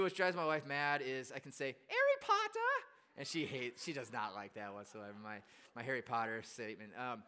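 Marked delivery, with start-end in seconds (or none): 1.9-2.9 very high, slow British schoolboy cry; hammed-up British with dropped H; mock British accent. Shown as a demonstration. Doing the one that drives his wife mad, mock British accent. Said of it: "only one I can do".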